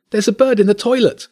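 put-on high, loud child's yell; kid shouting. A narrator's reading. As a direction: shout it out like an alarmed little boy. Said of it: "Arlo shouted".

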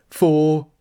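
shouted, high cricket call; a rat's triumphant umpire shout; loud call. Acted. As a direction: bellow the score out proudly. Rat calls a cricket score.

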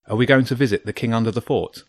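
put-on quick, keen young boy; eager boy. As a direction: ask it quickly, eager to know. Boy questions the squirrel.

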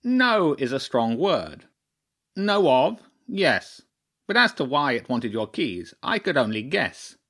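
pompous bird drawing out its careful correction; crow chairman, guarded. Acted.

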